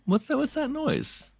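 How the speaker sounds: high, breathy frightened voice pitched far up; a nervous friend hearing something in the dark; scared whisper of a companion. Retold or imitated. Voicing Amish hearing a noise.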